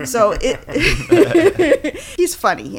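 high, loud, laughing through the words; real amusement breaking into speech. Real, not acted. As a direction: try to talk through your laughter. Amused by the passage just read.

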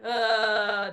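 a sobbing-style "Uh" vocal exercise; mock sob on uh; warm-up uh sound. Shown as a demonstration. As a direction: let out a crying "Uh" as a warm-up. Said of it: "or go like a".

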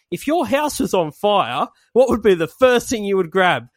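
mock TV interviewer. TV host quizzing a rock singer guest, mock interviewer. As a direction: put the question like a hammy interviewer. Acting a TV host's interview question.

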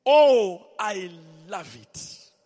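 a burst on "Oh" then a slow hushed "I love it"; overcome with joy. Real, not acted. Pastor carried away while quoting the prophet, real joy. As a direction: cry out, then sink into delight. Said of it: "I'm not emotional, but I just get to feeling good".

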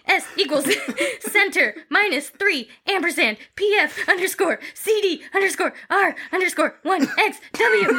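spelling it out through giggles; laughing breaks up the letters. Real, not acted. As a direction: keep cracking up while reading letters aloud. Laughing while spelling out the URL.

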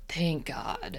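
whispered, breath-only relief; relieved sigh. Acted. Lost driver spotting the green sign, relieved whisper. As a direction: breathe it out under your breath.

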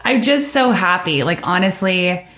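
emotional, voice rising high and catching on a laugh; moved almost to tears, laughing through it; teary and happy. Real, not acted. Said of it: "getting teary right now".

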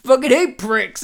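high, loud cat-man snarl; Catman. Pretend. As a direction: hiss it like an angry cat-man. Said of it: "imagine him coming up and be like".

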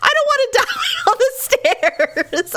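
high-pitched mock wail, laughing midway; hammed-up frightened whine, high and rushed; scared. Shaken wife tells husband her fear, wailing. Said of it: "I'm just a little scared".

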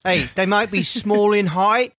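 a light British talk-show host voice; James Corden impression. Joking about gnomes to co-hosts, light British host voice. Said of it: "That sounded like James Corden".

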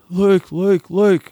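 high, urgent calling, imitating a mother; mock panic, calling her son's name; panicked mum. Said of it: "in a big panic".

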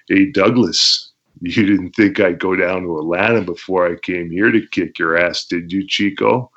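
lightly voiced Razor Ramon taunt; Razor Ramon imitation. Wrestler in character as Razor Ramon taunting Shane Douglas, lightly voiced. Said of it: "I did my Razor Ramon imitation".

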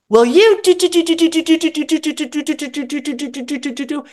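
high rattled do do do, fading away; high mock chatter of someone venting; mock ranting babble. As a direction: mimic a nonstop rant trailing off.

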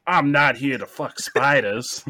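put-on slow, laughing stab at an Australian accent; badly faked Australian accent, drawn out; attempted Australian accent. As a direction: have a go at Aussie, half laughing. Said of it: "Just try to say".

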